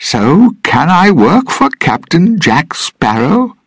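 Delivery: put-on high, loud, slow drunken shout. Drunk Norrington roaring at Gibbs for a place, loud shout. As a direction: bellow the demand at the whole room. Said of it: "he shouted".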